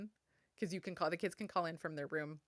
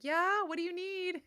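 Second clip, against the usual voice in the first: high, loud answer across the house; calling back; 13 semitones higher, 7 dB louder than usual. Retold or imitated. Mom answering her daughter's call, high and loud. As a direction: shout back to the child who called.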